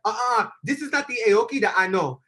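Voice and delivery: put-on French accent. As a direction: object in a light French accent. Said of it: "his cute little, like, French accent".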